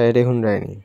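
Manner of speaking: Sylheti call, হুনরাইনি for listen; Sylheti dialect. Shown as a demonstration. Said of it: "Sylheti ভাষা".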